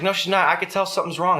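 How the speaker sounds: high, insistent retold protest; imitated worried wife. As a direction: argue back in a high mock-mother voice. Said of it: "was freaking out".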